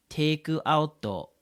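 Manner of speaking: Japanese-style "Take out", extra vowels after the consonants; Japanese accent. Retold or imitated. Customer ordering at McDonald's, Japanese-accented English. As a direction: say it "teiku auto", Japanese accent. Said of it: "like, a Japanese accent".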